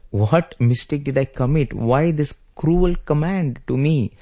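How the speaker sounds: high, wounded plea without real tears; tearful protest. Retold or imitated. Hurt younger brother protesting Rama's command, acted tearful plea. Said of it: "Lakshmana starts crying".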